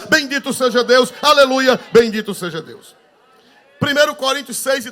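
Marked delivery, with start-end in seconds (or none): 0.1-3.0 higher, louder, exultant pulpit rhythm; preaching at full force. Acted. Pastor leading the congregation in praise, exultant preaching. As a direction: rouse the church to praise.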